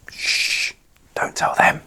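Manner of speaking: hushed conspiratorial whisper; mock-secret whisper. Host lets viewers in on a made-up secret, conspiratorial whisper. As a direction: shush them, then whisper it.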